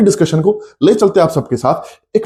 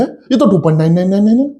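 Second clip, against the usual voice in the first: higher voice, nines strung together without a break; mock protest trailing into endless nines; run-on student protest; 4 semitones higher, faster than usual.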